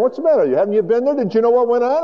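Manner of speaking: high-pitched, breathless-paced mock amazement; acted astonished excitement. Two travellers telling a stranger the news, in hammed-up excitement. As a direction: pour it out in high excited disbelief.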